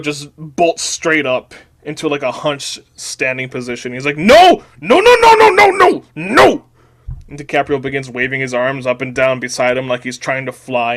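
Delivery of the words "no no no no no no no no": high, loud panicked screaming; frantic yelling. A narrator's reading. DiCaprio bolting up from the desk, screaming. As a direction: shriek a string of refusals. DiCaprio bolts up, protesting in story.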